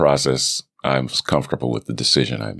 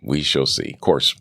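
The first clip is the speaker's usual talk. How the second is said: normal talking voice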